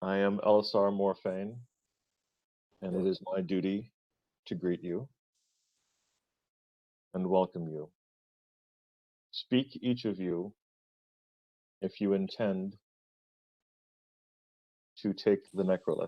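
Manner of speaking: resigned, weary elf voice. The elf greets the travelers at the doorway, resigned Elisar Morphane. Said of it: "She has a resigned look to her face".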